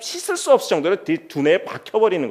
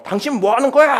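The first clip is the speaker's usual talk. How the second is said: higher, louder angry mock shout; mock yell; 7 semitones higher, 4 dB louder than usual. Angry person yells at someone who won't listen, mock shout. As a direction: snap it out as if losing your temper. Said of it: "하고 소리를 지르잖아요".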